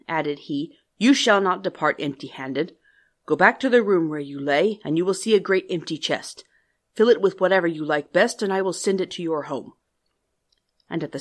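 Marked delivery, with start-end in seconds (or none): 1.0-9.7 grotesque monster voice. Acted. The beast adds a condition.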